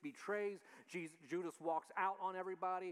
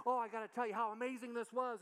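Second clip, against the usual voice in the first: excited; 6 semitones higher, 3 dB louder than usual. Retold or imitated. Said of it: "you go home and say".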